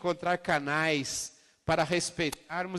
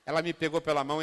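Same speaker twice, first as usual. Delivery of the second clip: ordinary talk, nothing marked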